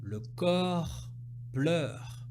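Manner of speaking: corps with an open o, pleure with an open eu; repeated clearly. Shown as a demonstration. Teacher repeating le corps pleure for the class. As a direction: say corps then pleure distinctly. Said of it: "je répète".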